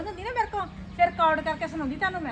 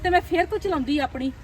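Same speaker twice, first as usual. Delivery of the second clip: louder, irritated complaining; frustrated grumbling; 5 dB louder than usual. Acted. Mother-in-law alone, fed up, grumbling loudly.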